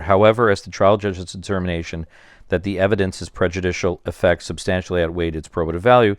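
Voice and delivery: monotone robotic reading. Real, not acted. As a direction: read it flat like a robot. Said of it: "You sound like a robot".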